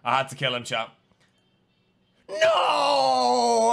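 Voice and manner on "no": loud, high wailing no; anguished cry. Real, not acted. Streamer wailing after a regrettable kill. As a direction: cry out in mock despair. Accidentally kills innocent player.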